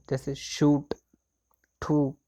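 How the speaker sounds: शूट and ठू with a long drawn oo; long oo vowel. Shown as a demonstration. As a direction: stretch the oo in शूट. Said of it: "लंबा sound आ रहा है ऊ का". (शूट में लंबा ऊ खींचकर)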